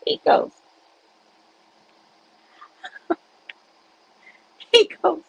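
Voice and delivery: a lightly hammed-up dramatic pronouncement; dramatic son. Son declaring deliverance to mom, lightly hammed dramatic. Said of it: "in a very dramatic way, 'cause he's dramatic".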